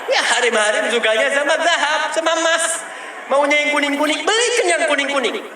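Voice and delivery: suara tinggi menggoda minta emas; menirukan perempuan manja. Retold or imitated. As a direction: nada tinggi manja, ingin yang kuning-kuning. (perempuan merengek minta emas, suara tinggi manja)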